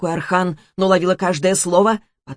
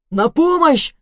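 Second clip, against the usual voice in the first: weak cry for help; 9 semitones higher, 4 dB louder, slower than usual. Acted. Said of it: "послышался слабый крик".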